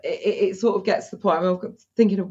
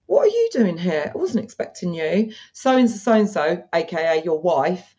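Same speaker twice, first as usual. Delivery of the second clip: flirty surprised friend; 4 semitones higher than usual. Acted. Greeting the client at the door, playful mock surprise. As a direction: play the startled wife's best friend. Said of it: "I'll say something like".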